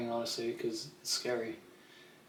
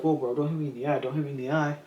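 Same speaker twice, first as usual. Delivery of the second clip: whiny complaint; 2 semitones higher, 4 dB louder than usual. Retold or imitated. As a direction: complain loudly about the eye. Complaining about being hit.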